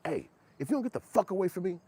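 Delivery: high, loud hammed-up yell; mock yell. Man yelling at child to go away, hammed-up shout. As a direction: yell the kid off.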